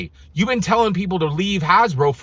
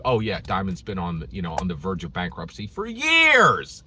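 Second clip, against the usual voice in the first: lower, offhand shop clerk voice; lower, bored-clerk imitation; casual shop assistant; 11 semitones lower, 3 dB quieter than usual. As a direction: shrug it off like it's old news. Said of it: "they will tell you".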